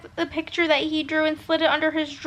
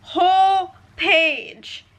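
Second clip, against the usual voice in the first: slow, high and louder; drawn-out excitement; 5 semitones higher, 5 dB louder, much slower than usual. Real, not acted. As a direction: stretch it out gushing. Excited emphasis.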